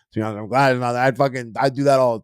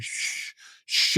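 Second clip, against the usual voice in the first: librarian shushing whisper; 4 dB quieter than usual. Retold or imitated. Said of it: "he was like".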